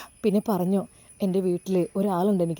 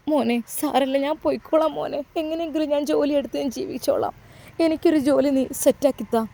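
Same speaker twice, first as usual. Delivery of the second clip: resigned woman; 5 semitones higher than usual. Acted. Sister-in-law offers to leave.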